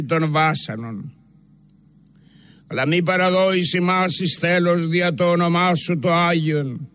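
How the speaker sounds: evenly pitched, reverent supplication, phrase by phrase; solemn prayer recitation. Real, not acted. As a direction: intone it as a solemn penitential prayer in church. Reads a penitential church prayer aloud.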